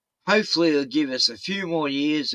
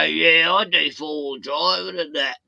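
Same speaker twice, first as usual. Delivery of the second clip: Richie from Boston voice; 2 semitones higher than usual. Retold or imitated. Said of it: "I go".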